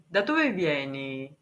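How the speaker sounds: slow, careful words for a learner; speaking slowly. Shown as a demonstration. Asking a foreign viewer where they're from, slowly. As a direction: space out da dove vieni for a foreigner. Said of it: "Ok, parlerò più piano".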